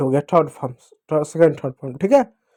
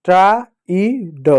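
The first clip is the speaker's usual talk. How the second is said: slow demo reading; much slower than usual. Shown as a demonstration. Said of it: "अब tried कैसे हुआ?".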